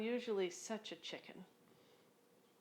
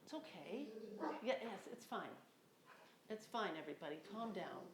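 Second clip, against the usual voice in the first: much softer, settling the dogs; soothing the dogs; 8 dB quieter than usual. Real, not acted. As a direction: hush the barking pack gently.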